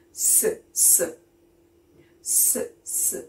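"S" as a hissing sss; letter sound S. Shown as a demonstration. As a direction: hiss "S" like a snake. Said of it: "what's the sound for the letter S".

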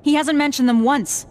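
heated, resentful rant at a teammate; worked-up venting that builds in frustration; snapping. Acted. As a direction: snap at them, pressing each grievance. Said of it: "I shouldn't be snapping at you".

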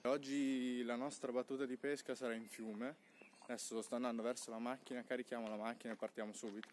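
muffled behind a mask; talking through a face mask. Real, not acted. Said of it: "mi vedete con la mascherina".

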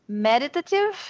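MEDITATIVE with the stress on its first syllable, ME; "meditative", accented right at the start. Shown as a demonstration. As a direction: hit the ME of "meditative". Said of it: "têm a sílaba tônica no início".

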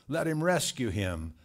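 loud scoffing from onlookers; jeering crowd. Acted. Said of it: "that's what the people spoke".

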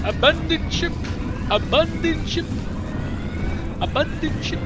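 loud high yell of alarm; shouting. Pretend. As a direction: call it out like a ship's captain. Calling out to abandon ship.

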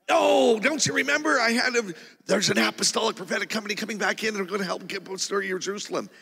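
high, loud burst of urgent reminding; excited insistence. Retold or imitated. Reminding his spiritual father on the phone, excited and insistent.

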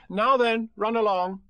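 high, loud motherly order; brisk mother Kanga. A narrator's reading. Kanga sends Roo and Tigger off, briskly motherly. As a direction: shoo them out, pitched high.

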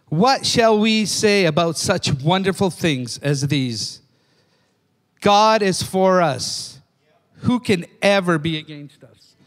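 slow, deliberate scripture reading; unhurried reading of the verse; read slowly. Shown as a demonstration. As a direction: read it slow so they grasp it. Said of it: "I'm gonna read it slow".

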